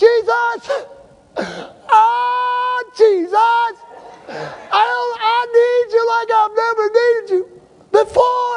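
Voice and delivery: put-on, very high, very slow, drawn-out crying out. Retelling crying out to God while driving, retelling crying out to Jesus. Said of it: "I like really cry out".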